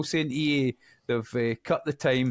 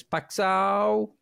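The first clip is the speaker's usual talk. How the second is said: put-on shouted name in a Dutch accent; 8 semitones higher, 4 dB louder than usual. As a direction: yell the name like a Dutch fan. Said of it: "I put my Dutch accent on every time he scores and shouts".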